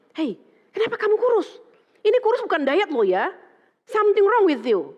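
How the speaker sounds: high, loud, direct challenge; blunt call-out. Retold or imitated. Teacher confronting a thin pupil, blunt and loud. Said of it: "Saya biasa begitu ya".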